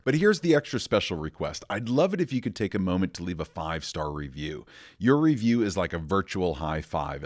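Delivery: polished, upbeat scripted call to action; podcast outro read. Acted. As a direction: read it like a host asking listeners to subscribe.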